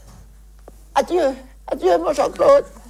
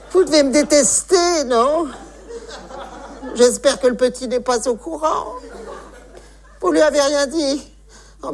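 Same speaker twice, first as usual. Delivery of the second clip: put-on old lady voice; 5 semitones higher than usual. Old lady role on the phone.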